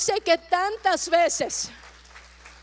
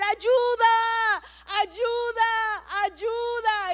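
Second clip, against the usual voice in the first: higher, shouted cry for help; shouting for help; 4 semitones higher, much slower than usual. Acted. Preacher acting the boy screaming for help, shouted. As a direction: yell it out like a desperate boy. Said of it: "empieza a gritar".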